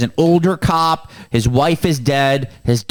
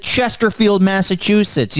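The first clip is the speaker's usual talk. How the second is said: high, proud Boston announcement; Boston accent; 6 semitones higher than usual. Acted. Man naming his bank's town to mercenaries, Boston accent. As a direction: sing out the town names in Boston style. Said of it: "that's my Boston accent".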